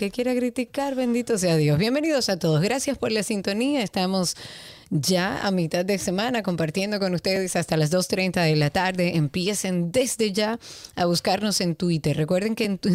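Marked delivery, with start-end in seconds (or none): 1.8-12.9 stiff lips under a face mask; speaking with a face mask on; through a face mask. Real, not acted. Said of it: "si estoy hablando así medio duro, es que tengo una mascarilla".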